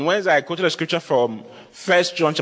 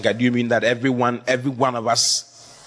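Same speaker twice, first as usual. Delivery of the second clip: lightly voiced questioner, low and measured; doubting church member; 6 semitones lower than usual. Congregant questioning the pastor about riches and wealth, lightly acted doubt.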